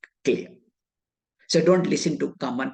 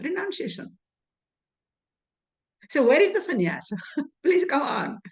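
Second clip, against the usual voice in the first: objecting questioner; 3 semitones higher than usual. Acted. Student challenging the teacher over switching from sannyasa to tyaga, mildly objecting. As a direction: protest mildly as a confused student, with a laugh near the end. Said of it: "question may arise".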